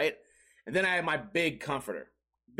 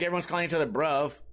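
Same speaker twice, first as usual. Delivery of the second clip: ordinary talk, nothing marked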